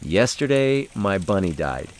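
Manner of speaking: a hint of a child breaking sad news; solemn little girl. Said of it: "was articulated by saying".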